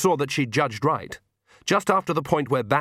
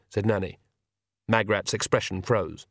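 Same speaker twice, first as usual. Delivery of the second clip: ordinary delivery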